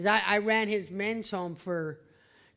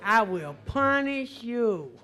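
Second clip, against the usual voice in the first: slow mock threat; 4 dB louder, slower than usual. Tough-boss threat, slowed.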